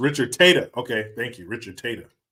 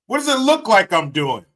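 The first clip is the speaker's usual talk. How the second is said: a snappy, louder, higher comeback; mock annoyed retort; 8 semitones higher, 8 dB louder than usual. Man snapping back when asked what he is doing, mock annoyed. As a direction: throw the question back with mock irritation. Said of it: "That's every man's first answer".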